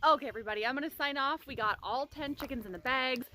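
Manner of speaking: talking through a retainer; slightly lisped retainer speech; wearing a retainer. Real, not acted. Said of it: "I'm not gonna be wearing this retainer anymore".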